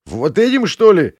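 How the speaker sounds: high, sneering scoff; contemptuous. A narrator's reading. Prince scoffs at the girl and her friend, high sneer. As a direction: scoff at them with disgust. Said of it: "пренебрежительно сморщился".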